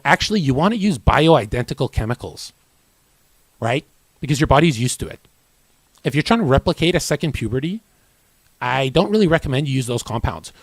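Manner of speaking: fast, mildly hammed-up lecturing; know-it-all younger self. Younger self correcting older lifters' cycles, lightly imitated know-it-all. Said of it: "I used to talk like that".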